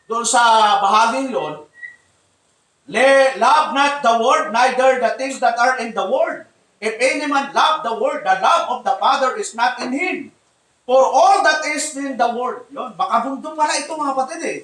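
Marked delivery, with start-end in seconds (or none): 2.9-12.7 scripture reading. Acted. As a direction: read the verse deliberately to the congregation. Reads First John aloud.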